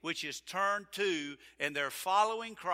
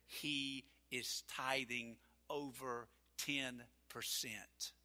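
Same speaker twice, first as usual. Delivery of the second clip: tearful wife; 4 semitones lower, 10 dB quieter, much slower than usual. Retold or imitated. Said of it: "in tears in her eyes".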